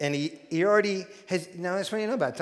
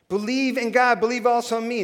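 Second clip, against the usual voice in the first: 1 emphatic command; 5 semitones higher, 6 dB louder than usual. Acted. Preaching command.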